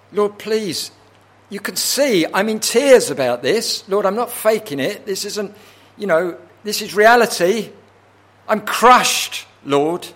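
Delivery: high, loud acted plea of desperation; impassioned pleading. Crushed psalmist insisting to God that his tears are real, impassioned pleading. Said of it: "what he is pleading on".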